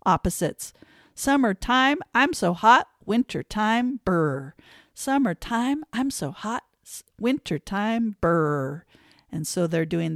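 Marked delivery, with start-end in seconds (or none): 1.1-4.6 1 acting hot and cold. Shown as a demonstration. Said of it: "how about seasons? Opposites". 4.9-8.9 1 acting hot and cold. Shown as a demonstration. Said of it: "how about seasons? Opposites".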